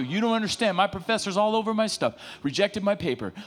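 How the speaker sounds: aggrieved student. Acted. Voicing an aggrieved student's complaint.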